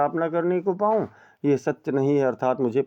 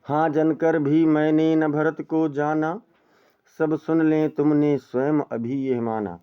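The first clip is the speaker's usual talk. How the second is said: poem recitation. Shown as a demonstration. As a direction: recite it like classical poetry. Teacher recites poem verse. (धीमा काव्य पाठ)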